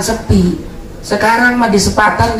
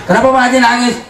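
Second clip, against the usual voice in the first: laughing question; 6 semitones higher, much faster than usual. Acted. Voiced question to Pak Haji.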